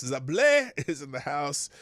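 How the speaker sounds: a real laugh breaks into the name Zablé. Real, not acted. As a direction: giggle through the name Zablé. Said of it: "I laugh every time I say Zablé".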